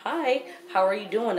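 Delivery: bright, high-pitched hello to the new partner; mock friendly greeting. Mother imagining greeting her ex's girlfriend, in a mock-friendly voice. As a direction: sweeten it up like a polite stranger. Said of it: "you know".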